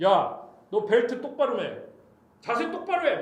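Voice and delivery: lightly voiced scary authority, pitch rising; stern God. God orders Job to stand up straight, mildly acted sternness. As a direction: give a curt order as a somewhat fearsome God. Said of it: "너무 무섭게 나타나신 거예요".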